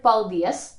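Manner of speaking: "paldies" stressed on DIES; stress on second syllable. Shown as a demonstration. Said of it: "we put the stress on the second syllable".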